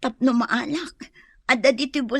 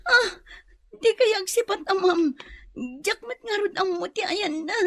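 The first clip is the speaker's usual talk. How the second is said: tearful plea; 4 semitones higher than usual. Acted. Captive pleading, crying.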